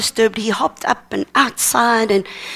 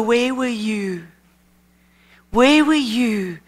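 slow prayer; slower than usual. Retold or imitated. Retold prayer, question repeated slowly.

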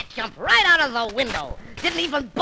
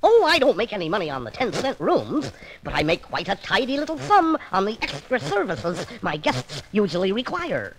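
scheming cartoon duck, pleased with himself; a con man hinting at his racket; sly Daffy Duck; 3 semitones lower than usual. Daffy explains his racket to Elmer, sly duck voice.

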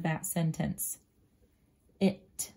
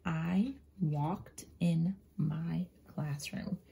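slow whisper; 3 dB quieter, much slower than usual. Shown as a demonstration. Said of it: "I'm going to say".

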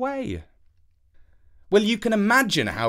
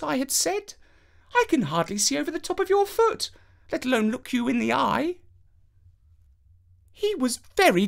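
very high, prim storytelling princess; 10 semitones higher than usual. A narrator's reading. Princess asking the boy to slay the giant, high and prim. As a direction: coax him into a deadly errand.

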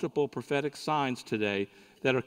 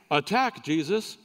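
parrot command; 3 semitones higher, 3 dB louder than usual. Retold or imitated. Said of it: "and the parrot says".

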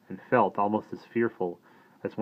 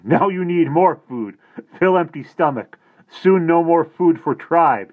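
loud, high, slow teasing voice; Little Bear teasing; 10 semitones higher, 11 dB louder, slower than usual. A narrator's reading. Little Bear teasing the sick boy about food, loud slow voice. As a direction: rib the boy slowly, laughing it off.

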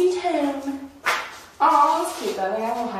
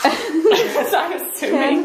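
laughing; 4 semitones higher, much slower than usual. Real, not acted. Both laughing at toilet joke.

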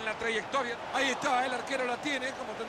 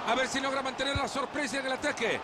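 excited goal call; 5 semitones higher than usual. Real, not acted. Otro gol cantado.

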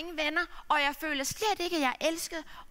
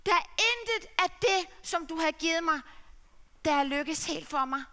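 a touch of a despairing plea, higher and louder; mildly voiced ashamed son; pleading son; 5 semitones higher, 5 dB louder than usual. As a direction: son begging father to see. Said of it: "han lagde sig straks ned og sagde".

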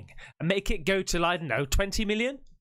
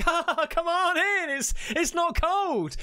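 much higher, put-on giggly girl voice; playful skinny dipper; 12 semitones higher than usual. Horror film girl calls someone into the water, high giggly mock voice. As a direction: coax in a high, mock-girlish sing-out. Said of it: "and she's like".

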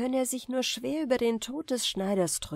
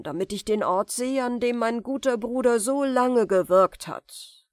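higher, louder, smooth sorcerer; false warmth; 4 semitones higher, 4 dB louder than usual. Acted. The sorcerer flatters Aladdin, falsely kind. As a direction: flatter the boy sweetly.

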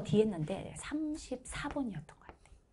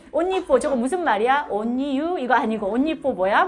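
louder, baffled questions through laughter; mock-confused whispers between friends, giggling; puzzled classmates; 4 semitones higher, 11 dB louder than usual. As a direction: classmates puzzle over a strange grade, laughing.

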